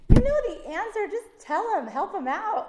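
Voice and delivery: just tell him already, half shouting; high exasperated urging. Retold or imitated. Inner exasperated quote.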